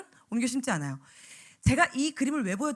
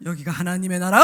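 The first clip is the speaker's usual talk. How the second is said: scary deep voice; 8 semitones lower, 8 dB louder than usual. Retold or imitated. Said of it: "막 울고 막 난리가 난 거예요".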